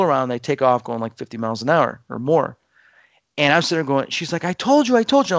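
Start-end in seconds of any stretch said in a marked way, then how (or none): 4.4-5.4 much higher mock told-you-so; wife crowing she was right; imitating wife's told-you-so. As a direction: sing it out like you were right all along. Wife vindicated after the danger.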